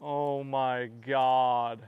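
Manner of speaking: stunned slow laughing disbelief; shocked laughter. Real, not acted. Father shocked by fish catch.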